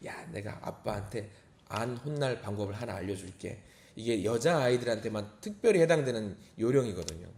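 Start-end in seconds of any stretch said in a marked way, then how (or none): 0.1-3.6 low, hushed confiding voice; imitated whispering. Uncle lets his niece in on a trick, hushed and confiding. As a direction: share a secret trick under your breath. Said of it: "제가 귓속말로 알려줘요".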